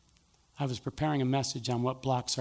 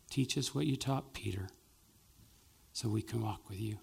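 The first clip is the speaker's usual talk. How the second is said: closing prayer. Acted. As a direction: pray over the congregation gently. Pastor leads closing prayer.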